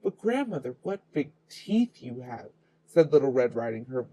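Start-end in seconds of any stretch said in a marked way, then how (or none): 0.0-2.5 quivering slightly. Acted. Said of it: "her voice quivering slightly".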